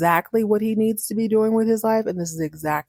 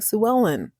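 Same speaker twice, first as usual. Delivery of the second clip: incredulous; 9 semitones higher than usual. Acted. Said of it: "And he's like".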